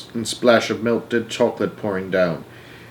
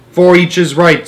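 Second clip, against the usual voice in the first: put-on louder, higher old man's cry; cried out; 6 semitones higher, 7 dB louder than usual. A narrator's reading. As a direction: call it out insistently. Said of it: "cried Grandpa George".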